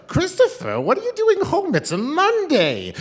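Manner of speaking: put-on very high, loud screechy old-lady voice; hard-of-hearing grandma. Deaf grandma surprised grandson is home, high loud holler. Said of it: "this is how she talked".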